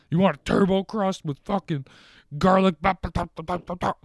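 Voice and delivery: high, loud hammed-up upsell voice; mock the app like an over-eager cashier; mock pushy salesman. Mocking the app, singsong.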